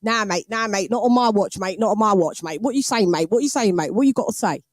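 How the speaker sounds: East London geezer rant, rapid-fire repeats; East London accent. Shown as a demonstration. Londoner demonstrating film gangster rant, East London accent. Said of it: "I can actually speak like that".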